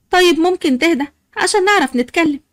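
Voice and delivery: a touch of crying while asking for calm; mock tearful. Sara begging her husband to calm down, mildly tearful. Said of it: "سارة بتعيط".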